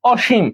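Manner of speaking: short demonstration of অসীম with a palatal sh; sh sound. Shown as a demonstration. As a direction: pronounce অসীম as "o-shim". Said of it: "এটা তালব্য স এর মতো উচ্চারিত হয়". (অসীম-এ তালব্য শ দিয়ে "ওশিম")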